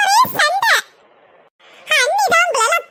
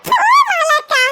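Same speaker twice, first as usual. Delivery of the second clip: tearful protest; 3 semitones higher, 3 dB louder than usual. Acted. Bride brushes off teasing, upset.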